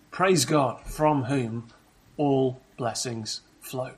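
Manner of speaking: slow, drawn-out hymn line; quoting hymn. Acted. Preacher quotes the hymn to congregation. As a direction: savour each word slowly. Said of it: "As the hymn says".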